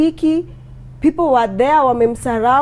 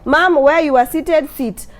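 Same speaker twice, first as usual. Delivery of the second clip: imitating her bossy daughter; 3 semitones higher, 4 dB louder than usual. Daughter ordering everyone around.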